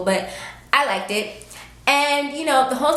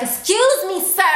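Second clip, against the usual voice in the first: pointed, sharply higher "Excuse me, sir"; the blunt way she'd say it anywhere else; rude version; 9 semitones higher, slower than usual. Retold or imitated. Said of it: "'Cause if we had been anywhere else, I'd be like".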